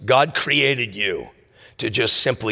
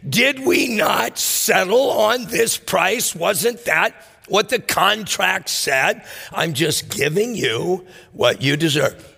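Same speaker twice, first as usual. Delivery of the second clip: baffled landowner; 6 semitones higher than usual. Retold or imitated. And he's like.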